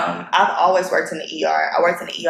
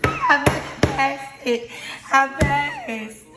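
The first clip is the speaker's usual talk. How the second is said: higher, slow disbelieving joy; higher, slow disbelief on learning she passed; overjoyed; 7 semitones higher, much slower than usual. Real, not acted. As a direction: let it sink in, stunned and thrilled. Reading exam results pass.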